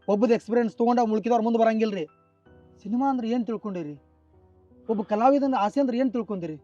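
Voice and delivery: loud, bitter accusation; angry scolding. Acted. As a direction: tear into him for the fraud. Cheated man scolds the director.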